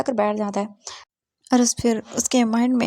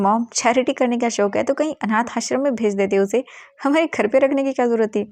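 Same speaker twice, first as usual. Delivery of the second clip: scornful retort; 3 dB louder than usual. Acted. Son argues with his mother.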